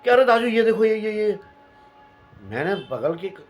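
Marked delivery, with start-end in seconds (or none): 0.0-1.4 frantic. Retold or imitated. Watchman frantic, pointing at noise.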